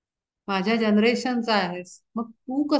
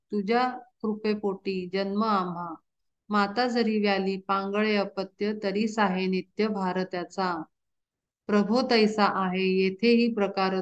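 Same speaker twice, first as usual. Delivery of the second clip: devotional verse recitation. Acted. Preacher reciting Arjuna's plea to Krishna, measured chant. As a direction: intone each line of the abhang like a kirtan.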